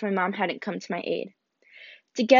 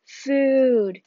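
groan; 3 semitones higher, 4 dB louder than usual. Acted. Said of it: "he groaned".

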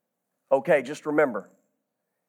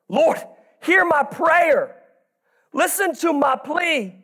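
slow, sincere plea from the heart; heartfelt prayer; 4 semitones higher, slower than usual. Shown as a demonstration. Preacher rereads the psalm as a real prayer, sincere. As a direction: pray it like you mean it, drawn out. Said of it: "Read this as if it was your prayer".

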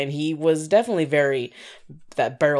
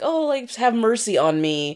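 put-on frail old man; 7 semitones higher than usual. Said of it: "done the whole".

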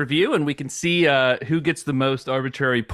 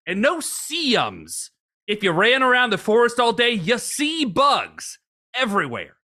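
put-on old bushwhacker voice. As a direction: read it as a grizzled woodsman, baffled. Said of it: "use a different voice for each reviewer".

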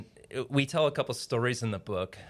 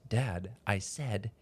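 slow, spaced-out words, rising pitch on the last; mock-earnest child spelling it out word by word; imitated insistent toddler; much slower than usual. Father retelling his son's insistence, deliberate imitated toddler. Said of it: "looks at me dead square in the eyes".

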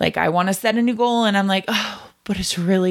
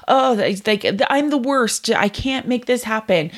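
put-on higher, whiny kid voice repeating it; little kid whining; 4 semitones higher than usual. Little kid stuck on something, whining higher. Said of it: "they're like".

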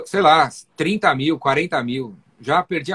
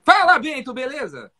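enthusiastic greeting; 8 semitones higher than usual. Shown as a demonstration. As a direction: greet him like an old friend, full of zest. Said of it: "Com o maior entusiasmo, maior tesão do mundo".

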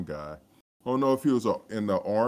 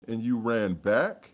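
slow, higher, louder mock disbelief; incredulous; 5 semitones higher, 6 dB louder, slower than usual. Retelling amazement at dad running back, incredulous. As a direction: question it as if you can't believe it. Acts out astonishment at dad's run.

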